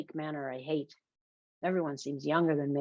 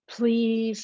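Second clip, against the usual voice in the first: higher, drawn-out plea; pleading; 6 semitones higher, 4 dB louder than usual. Acted. Friend begging to borrow a book, pleading. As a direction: beg for it in a raised pitch. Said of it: "he pleads".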